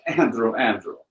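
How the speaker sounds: understated Russian friend imitation; Russian accent. Russian friend gets the storyteller's attention, imitated Russian accent. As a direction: lightly mimic the Russian accent. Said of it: "that same Russian friend".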